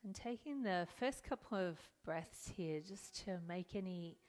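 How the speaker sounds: calm, unhurried meditation guidance with long pauses; guided meditation. Acted. Yoga teacher settling students into their seats, guided meditation. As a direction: ease them into stillness, leaving room to breathe.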